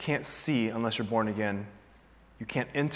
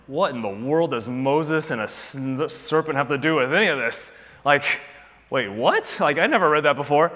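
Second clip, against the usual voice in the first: baffled disbelief; 2 semitones higher, 6 dB louder than usual. Retold or imitated. Reader blurts out in shock at the serpent, loud and baffled. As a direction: blurt it out like you just noticed it.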